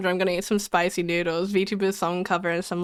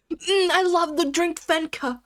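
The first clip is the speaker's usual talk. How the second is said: mock ad voice; 8 semitones higher, slower than usual. Mock advert voice.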